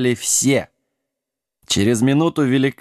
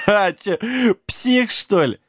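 high-pitched jeering giant; mocking question; 8 semitones higher, slower than usual. A narrator's reading. Giant laughs at the mad king, mocking. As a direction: scoff in a raised voice.

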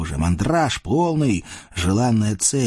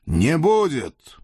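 stern voice; 6 semitones higher, slower than usual. Acted. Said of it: "грозный голос раздался".

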